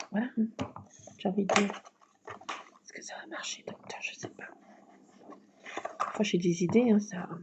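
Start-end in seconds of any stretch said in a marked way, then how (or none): 2.8-4.5 playful hushed whisper. Real, not acted. To viewers, whispering a playful question to the doctor.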